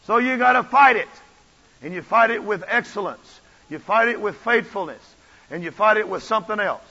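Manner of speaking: loud, emphatic preaching; preaching at full force. Acted. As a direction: pound each line from the pulpit.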